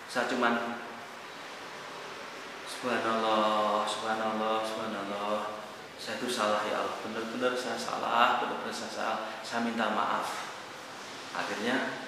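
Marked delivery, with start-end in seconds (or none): 2.6-10.5 father begging God's forgiveness, hushed; tearful repentant prayer. Retold or imitated. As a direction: plead quietly for forgiveness.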